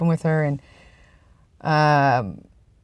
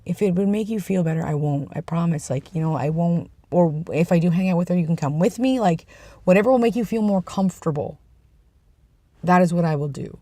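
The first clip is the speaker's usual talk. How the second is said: sweet, honest. Retold or imitated. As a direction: gently retell a partner's heartfelt reassurance. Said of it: "Very sweet, very honest".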